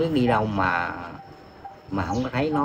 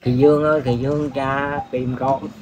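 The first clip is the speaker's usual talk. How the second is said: calling to daughter. Real, not acted. Father calls his missing daughter home, pleading. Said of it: "Ông gọi con gái của ông về đi".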